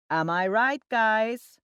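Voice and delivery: loud, rising appeal to the group; talking too loudly. A narrator's reading. Drunken account manager repeating to silent colleagues, talking too loudly. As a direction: pitch it up and demand agreement. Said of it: "talking too loudly".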